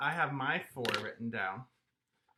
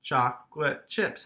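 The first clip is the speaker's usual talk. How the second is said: "Chocolate chips" in three separate beats; syllable by syllable; 4 dB louder than usual. Shown as a demonstration. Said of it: "has three syllables".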